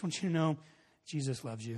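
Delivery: subdued, reluctant reassurance, sinking at the end; almost sad. Retold or imitated. Youth pastor reluctantly telling a stranger, almost sad. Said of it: "sad that he was saying it".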